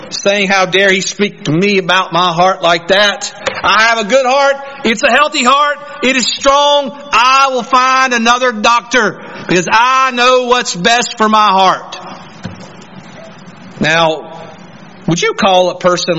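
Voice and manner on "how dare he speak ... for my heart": mock indignation, pitch climbing as it goes; insulted storming out. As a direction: play an offended patient insisting stubbornly. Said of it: "you being insulted, you storm out".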